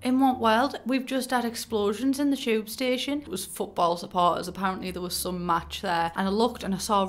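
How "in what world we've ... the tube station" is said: incredulous outburst. Retold or imitated. Outraged at calm Londoners.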